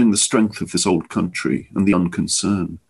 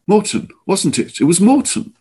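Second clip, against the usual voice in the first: tense anger; 9 semitones higher than usual. A narrator's reading. Rising anger at attacker.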